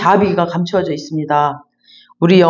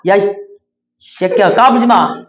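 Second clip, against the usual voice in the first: mock tough retort. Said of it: "누가 나한테 욕하거나 대들죠".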